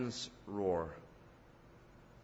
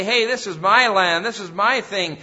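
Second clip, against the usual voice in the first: much louder and higher, territorial bellow; bully the crowd off your turf; intimidating devil; 7 semitones higher, 12 dB louder than usual. Acted. Preacher voicing the devil claiming the land, loud intimidating bellow. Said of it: "He wants to say".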